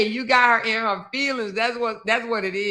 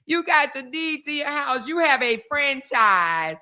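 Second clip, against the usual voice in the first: slow, higher mocking imitation of Ashley; imitating Ashley's live, slow and higher; mocking Ashley's words; 4 semitones higher, slower than usual. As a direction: drag it out in a sing-song mock of her live. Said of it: "she went right back live to say the same thing".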